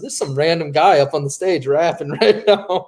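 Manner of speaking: laughing through the words; high laughing disbelief. Retold or imitated. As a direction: giggle while telling it. Laughing while telling friend.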